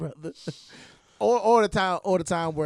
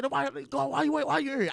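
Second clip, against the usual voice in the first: mock high questioning; 9 semitones higher than usual. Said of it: "He said".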